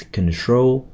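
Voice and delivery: CONTROL as kun-TROHL, first vowel reduced; drawn-out model of CONTROL, weight on the second syllable; correct pronunciation. Shown as a demonstration. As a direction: say "control" slowly with a clear tr. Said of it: "So it's correct pronunciation".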